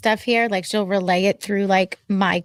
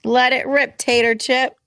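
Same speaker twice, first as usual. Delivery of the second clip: playful rhyme; 3 semitones higher, slower than usual. Pretend. Rhyming quip.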